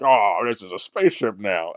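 slow, drawn-out "Oh", lightly mocking; mock dismissive. Telling a co-host how they sounded, slow mock dismissiveness. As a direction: imitate an unimpressed remark, dragging it out. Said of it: "it just sounded like you were being like".

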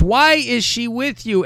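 high, drawn-out mock indignation; mock indignant demand. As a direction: read it slowly as an affronted boyfriend's challenge. Repeats the boyfriend's demand.

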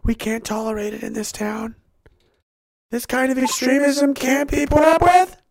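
building from restrained to strained outrage; mock intolerant official. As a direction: let the indignation swell. Acting official declaring intolerance, rising.

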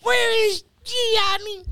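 high, slow mock girlfriend demand. Mimicking the main chick catching him, high slow mock voice. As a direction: squeak it like an angry girlfriend. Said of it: "And she be like".

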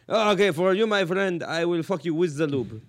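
put-on joking Arab merchant's accent. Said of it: "When the Arab man says".

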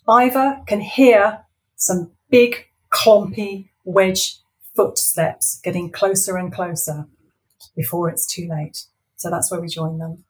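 lively storybook reading; story narration. A narrator's reading. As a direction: read it like a bedtime story. Author reads her story aloud.

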